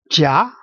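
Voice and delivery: jia gliding upward; rising jia, like a question; second tone. Shown as a demonstration. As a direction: say jia with the pitch climbing to the end. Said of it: "little streak going up".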